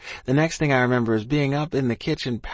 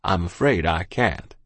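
lowered man's voice; 5 semitones lower than usual. A narrator's reading. Doctor voiced in story.

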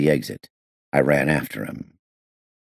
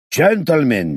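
loud, higher call for order; 11 semitones higher, 5 dB louder, slower than usual. A narrator's reading. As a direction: call the quarrel to a halt. Owner calming the quarrel.

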